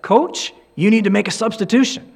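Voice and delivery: retold referee snapping at the coach; irritated referee. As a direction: push the coach, pitch up and insistent. Irritated referee demands substitution.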